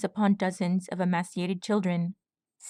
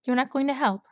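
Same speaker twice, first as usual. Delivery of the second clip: fuming; 5 semitones higher, faster than usual. Acted.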